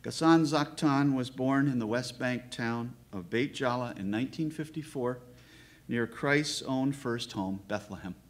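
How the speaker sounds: deliberate prepared reading in measured phrases; formal biographical introduction. Real, not acted. Host giving the poet's biography to the audience, formal and measured. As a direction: read out the poet's life with ceremony.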